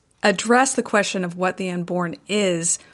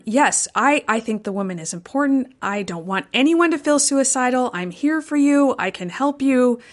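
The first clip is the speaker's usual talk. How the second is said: higher, earnest reassurance; voicing gentle reassurance; reassuring; 4 semitones higher than usual. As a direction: assure a distressed person you are there for them. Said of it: "just assuring them".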